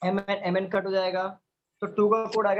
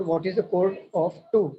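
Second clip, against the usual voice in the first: slow model question; much slower than usual. Shown as a demonstration. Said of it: "जब भी आपको पूछा जाए कोड".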